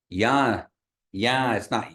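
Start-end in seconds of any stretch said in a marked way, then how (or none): 0.1-0.6 Ya with the A sent through the nose; nasalized A in Ya. Shown as a demonstration. Teacher models the Kiowa word for students, nasalized A in Ya. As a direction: say Ya with a nasal A, no N at the end. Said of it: "mark that the A is nasalized".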